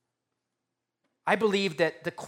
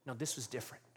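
a hint of calm insistence; 3 dB quieter, much faster than usual. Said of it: "And Jesus says".

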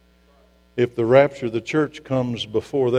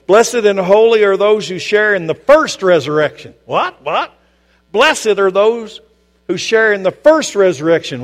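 preaching at full force; 6 semitones higher, 5 dB louder than usual. Real, not acted.

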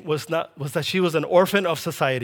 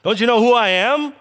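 raised, mock-offended outburst; mock indignation; 4 semitones higher, 3 dB louder than usual. Voicing what God doesn't say to Sarah, mock indignation. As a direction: play affronted, pushing the pitch up on the challenge. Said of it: "but he doesn't say".

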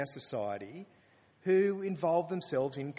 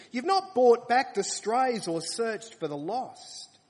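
loud, higher declaiming of scripture; preaching at full force; 6 semitones higher, 6 dB louder than usual. Acted. Preacher booming God's rebuke at the greedy shepherds, loud.

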